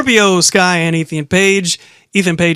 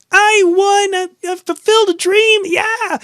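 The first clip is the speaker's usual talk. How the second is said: very high, squeaky mock excitement; mocking a champion gushing over her dream; mock excited winner; 12 semitones higher than usual. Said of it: "She's very excited. She's like".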